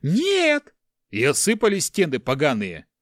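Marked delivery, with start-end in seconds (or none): 0.0-0.7 mocking high squeaky shriek of "Нет!"; the giant mimics the frightened monk with a squeal; thin squeak. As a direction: squeal it very high and loud like a panicked coward. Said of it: "пропищал тонким голосом".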